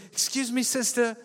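high, loud friendly call. Retold or imitated. Wife calling after the stranger again. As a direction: call out warmly to the lady ahead. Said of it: "And Eliana runs. She says".

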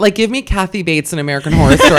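loud, emphatic enthusiasm through laughter; excited gushing. Real, not acted. Guest telling hosts her fantasy butcher, excited gushing. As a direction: demand it loudly, delighted by the joke.

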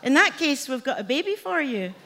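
imitating a suddenly helpful agent; eager agency worker. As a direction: lift the pitch like a delighted official. Acts out agency's eager offer.

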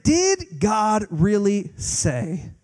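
very slow, drawn-out sly question; a hint of the sly serpent; mocking serpent. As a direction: drag it out like a doubting serpent. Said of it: "he's saying".

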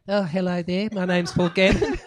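lightly put-on podcast intro voice; Paul Gannon. Guest mimicking the host's show intro, lightly put-on voice. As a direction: do a mock badly translated host intro. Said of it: "like a badly translated Paul Gannon".

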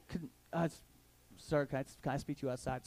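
1 nervous stammer. Retold or imitated. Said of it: "I stuttered just like that".

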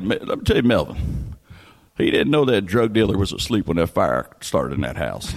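low, flat deadpan warning; Melvin's voice. Retold or imitated. Melvin warns Jimmy, low deadpan voice. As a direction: mutter it like a grim ex-con. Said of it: "he goes".

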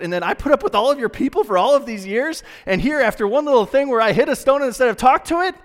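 high, loud, building outrage; indignant Moses. Retold or imitated. Moses protesting to God about the promised land. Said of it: "this is the way that I would take that".

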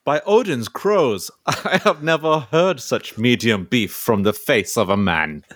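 lightly voiced Nordic warrior; booming hammy Viking boast. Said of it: "I'll be Ivor".

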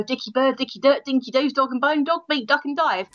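hammed-up Cockney patter. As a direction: rattle off rhyming slang in broad Cockney. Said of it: "I swing from Cockney".

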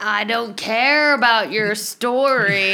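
put-on slow, lightly drawled Southern accent. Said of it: "with the Southern accent?".

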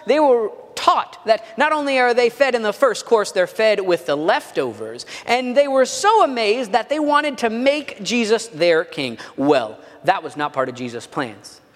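dramatic TV recap narrator voice; previously on recap. Shown as a demonstration. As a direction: announce it like a 'previously on' trailer voiceover. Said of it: "that was my recap voice".

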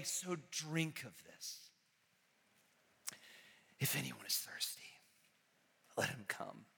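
soft, low, whispered close; hushed invitation. Real, not acted.

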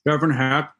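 name said through a mouthful of cereal; chewing while giving his name; mouth full. Real, not acted. Guest introduces himself while eating cereal, mouth full. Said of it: "Sorry, I'm eating cereal".

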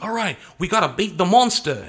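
mock Ranger line with a New Zealand accent slipping through; high and loud, hammed-up American accent that slips. Fan mimicking a Kiwi actor playing a Ranger, slipping accent. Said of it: "slips a little bit in their American accent".

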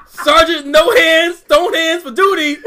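loud, high drill-sergeant bark; crisp loud soldier report. Pretend. Mock military roll call.

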